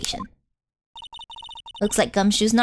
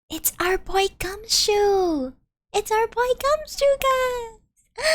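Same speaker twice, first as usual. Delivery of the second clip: excited announcement; 7 semitones higher, slower than usual. Acted. Excited recognition of Gumshoe.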